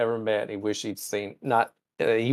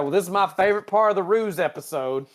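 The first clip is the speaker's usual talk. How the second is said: higher, smug theatrical reveal; hammed-up Spock reveal; 7 semitones higher, 4 dB louder than usual. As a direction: play it as a proud unmasking. Spock's big reveal, comic voice.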